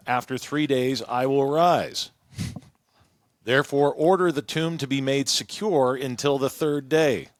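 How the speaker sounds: measured public Bible reading, lifted at phrase starts; scripture reading. Acted. Host reading the Gospel account to co-hosts, clear narration. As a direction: read the passage aloud to the group. Reads the Bible passage aloud.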